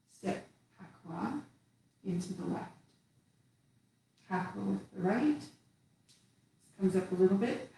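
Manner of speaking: calm instructor voice guiding the form. Acted. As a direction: talk them gently through each step. Cueing tai chi moves while doing them.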